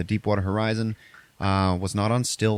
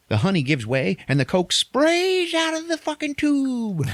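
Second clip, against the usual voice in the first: high, slow, building excitement; excited; 3 dB louder than usual. Real, not acted. Telling his friend the spray scene, high and thrilled. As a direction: stretch it out, thrilled at the payoff.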